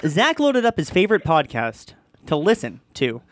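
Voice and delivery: halting, over-dramatic reading with odd pauses; Shatner impression. Reader hamming up a listener's story, Shatner impression. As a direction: read it like a hammy actor, pausing between phrases. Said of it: "is this your Shatner impression".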